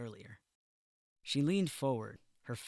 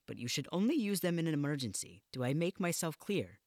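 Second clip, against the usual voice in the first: stern matron; 3 semitones higher, 4 dB louder than usual. Acted. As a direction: lay down the rules firmly. Matron lays down the rules.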